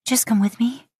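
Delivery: imploring. A narrator's reading. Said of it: "you implore him".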